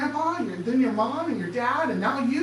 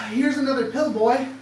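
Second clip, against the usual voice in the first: mock condescending adults. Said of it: "they sit around and they go".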